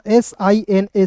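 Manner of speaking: very slow, each letter set apart; teacher spelling a word slowly for beginners. Shown as a demonstration. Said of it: "सीना।".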